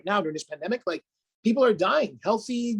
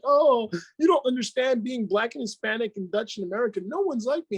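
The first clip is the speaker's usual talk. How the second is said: higher, mock self-pitying whine; whiny victim; 4 semitones higher than usual. Coach imitating his old self-pitying excuses, mock whine.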